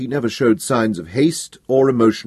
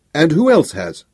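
raised, demanding emperor; angry emperor; 6 semitones higher, 4 dB louder than usual. Acted. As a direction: press him hard as the emperor.

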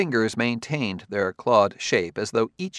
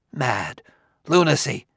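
indignant outburst; 4 semitones higher than usual. A narrator's reading. Scientist scoffing at the detective's theory, indignant outburst. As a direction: reject the idea as outrageous. Liebig rejects the idea, appalled.

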